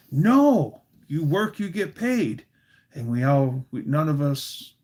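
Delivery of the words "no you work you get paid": mock angry refusal, higher and emphatic; Busha. Busha refusing the boys' free help, mock angry. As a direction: imitate an indignant grandmother laying down the law. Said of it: "She was mad".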